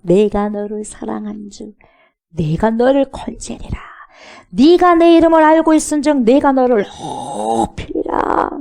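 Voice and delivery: slow, solemn divine promise; 하나님의 음성. Acted. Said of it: "그때 하나님으로부터 음성을 듣게 돼요". (느리게 선포하는 하나님의 음성)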